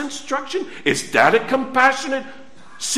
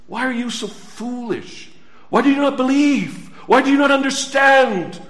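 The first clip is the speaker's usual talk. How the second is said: pleading rebuke. Acted. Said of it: "fool in this context means".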